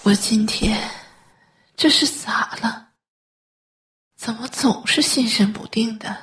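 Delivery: troubled, husky muttering to herself; talking to herself. Acted. Sleepless mother rubbing her sore leg, troubled self-talk. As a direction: fret aloud in a whispery, breathy voice. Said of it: "自言自语".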